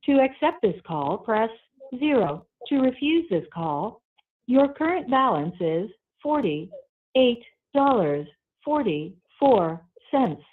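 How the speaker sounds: tinny prison phone line audio; payphone call. Real, not acted. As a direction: sounds like a call over a jail phone. Recorded prison phone call played.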